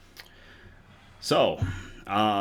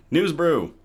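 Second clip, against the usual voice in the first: segment announcement; 6 semitones higher, 7 dB louder than usual. Acted.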